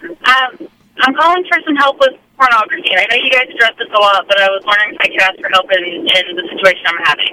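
muffled caller on a Bluetooth headset; muffled phone. Real, not acted. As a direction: sound like a caller on a car headset mic. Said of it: "Because it sounds really muffled".

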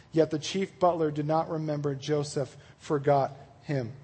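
measured read-aloud of a Bible story; scripture reading. Acted. Preacher reading Genesis to his group, measured narration. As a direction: read the passage out evenly.

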